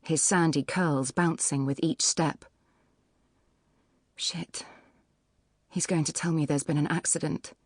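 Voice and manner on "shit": hushed, whispered swear; whispered curse. A narrator's reading. Pregnant woman cursing to herself as the builder runs up, whispered. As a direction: curse under your breath in a whisper.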